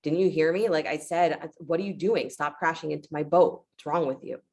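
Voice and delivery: mildly exasperated mock telling-off; acted irritation. Boatman telling off whoever keeps bumping his boat, mildly irritated. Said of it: "He gets more irritated".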